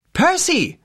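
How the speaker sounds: calling from far away. A narrator's reading. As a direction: call out as if distant. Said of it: "Rachels Stimme schien von weit her".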